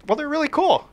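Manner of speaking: high, eager praise; upbeat compliment. Retold or imitated. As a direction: gush a little over the outfit. Teller's own voice, quoted high.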